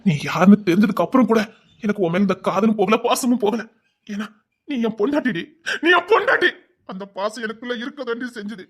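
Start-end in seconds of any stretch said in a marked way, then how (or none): 4.1-5.4 softer, falling, heartbroken insistence; hurt plea. Acted. Husband quietly reminding his wife she is his, hurt. 5.8-6.5 anguished cry. Acted. Husband crying out to his wife that she is his, anguished.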